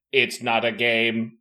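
lightly voiced robotic alien; flat, hollow machine-like read; a hint of a mechanical alien voice. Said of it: "in a hollow mechanical voice".

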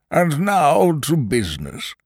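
high, slow, drawn-out minister voice; fat Prime Minister. Acted. Prime Minister turning the court to business, high and ponderous. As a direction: call the meeting to order, high and slow.

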